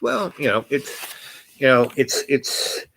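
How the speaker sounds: hemming and hawing. Retold or imitated. Retelling her dodging a question, hemming and hawing. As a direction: stall and restart, imitating someone avoiding an answer. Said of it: "hemming and hawing about".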